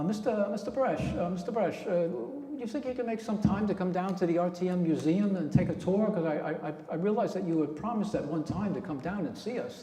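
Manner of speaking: put-on Brooklyn accent. Calling into Paul's radio show, disguised in a light Brooklyn accent. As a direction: prank caller hamming up a Brooklyn accent. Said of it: "I should say Brooklyn accent".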